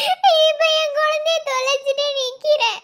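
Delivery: put-on tearful, pleading for her lost child; a mother crying over her missing child. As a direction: weep as you speak of the lost daughter. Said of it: "ஏம்மா அழுகுறியா?".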